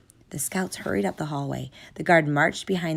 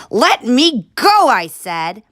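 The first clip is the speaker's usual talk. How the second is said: high loud yell; 7 semitones higher, 10 dB louder, slower than usual. Acted. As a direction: struggle free, shouting. Struggling in guard's grip.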